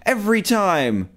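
high startled yell, easing in volume; startled outcry. Real, not acted. Player jolted by a jump scare, startled yell. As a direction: yelp in shock, high and loud, then let it settle.

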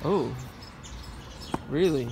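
normal talking voice

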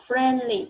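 "friendly" drawn out slowly; model pronunciation. Shown as a demonstration. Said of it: "gần đúng nhá". (đọc mẫu "friendly" thật chậm)

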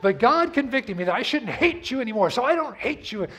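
sarcastic sorry that still blames her; mock grudging apology. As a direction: sell the fake apology that reopens the fight. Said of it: "the way you say it".

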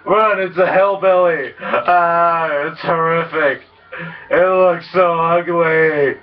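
high, hammed-up horrified cry; mock horror. Gamer fleeing a hillbilly pedestrian, hammed-up horror. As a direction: shriek it like a horror movie.

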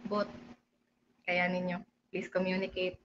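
calming team talk. Retold or imitated. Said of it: "kinausap na".

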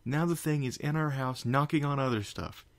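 high, loud scolding; railing. Acted. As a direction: rail at her in alarm. Spike continues railing.

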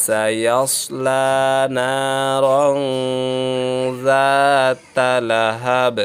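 very slow, melodic tajweed chant; Quran recitation. Shown as a demonstration. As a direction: recite with long drawn vowels. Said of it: "teacher recites verse".

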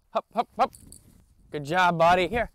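high, loud sing-song hops then praise; bright high-pitched praise for a good dog; excited puppy praise. Real, not acted.

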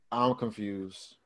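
slow, soft model reply; sample reply. Shown as a demonstration. Teacher to class, modeling the reply slowly and softly. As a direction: drawl it slowly and softly as an example. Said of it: "just say".

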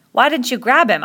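high, loud reproach; accusing demand. Acted. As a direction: demand an explanation hotly. Accusing in boys' quarrel.

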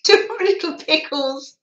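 loud, high mock Northern English mill-town accent; hammed-up Northern English cotton mill accent. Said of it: "straight from the cotton mill factories, that accent".

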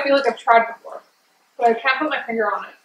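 talking between bites; sucking on a freezie. Real, not acted. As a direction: mouth cold with ice. Seen 1: Woman holds freezie at lips, sucking between phrases throughout.

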